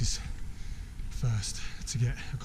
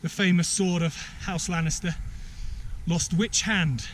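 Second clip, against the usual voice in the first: higher, measured quizmaster delivery; quiz host; 6 semitones higher than usual. Pretend. Host puts a trivia question to contestants, quizmaster voice. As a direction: pose the question in deliberate phrases.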